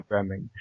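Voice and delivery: "programming" stretched on its first syllable; stress on PROGRAMMING. Shown as a demonstration. Showing the co-host the emphasised word, stress on "programming". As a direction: spell out the emphasis on "programming" without raising the voice. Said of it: "emphasis on the word".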